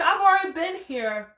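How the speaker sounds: rising outrage, peaking loud; indignant. Retold or imitated. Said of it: "I was like".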